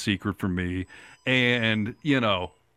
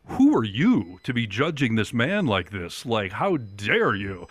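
mock indignation. Retold scolding, mock outrage.

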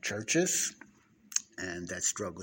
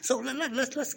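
laughing, high and louder, pushing on; 7 dB louder than usual. Real, not acted. Laughing off the phone buzz, pushing on laughing. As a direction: chuckle through the restart. Laughing off the text-message noise.

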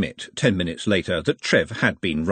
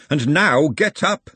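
higher, louder, drawn-out order; screamed; 7 semitones higher, 5 dB louder, slower than usual. A narrator's reading. Glenda thumps the table and orders Nutt up, screaming. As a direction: raise the voice and stretch the command. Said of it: "she screamed".

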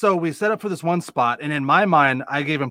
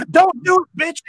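retold threat; 5 dB louder than usual. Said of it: "Look at him, like".

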